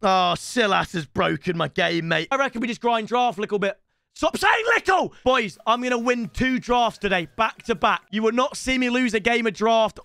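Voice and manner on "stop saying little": self-scolding. Real, not acted. Scolding himself for saying little.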